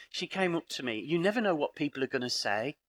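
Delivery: ordinary delivery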